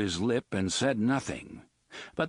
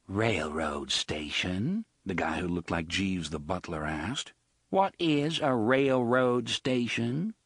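puzzled butler voice; slower than usual. Acted. Jeeves puzzled.

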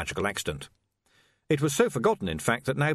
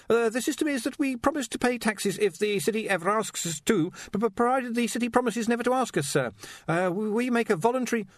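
high, stammering, anxious voice; nervous young wizard; 12 semitones higher than usual. Acted. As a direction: stumble over the words nervously.

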